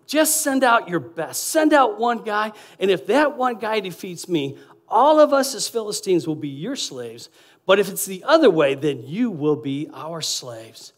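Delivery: lightly voiced Goliath taunting the army; mild giant's taunt. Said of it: "he taunted, he sneered, he roared".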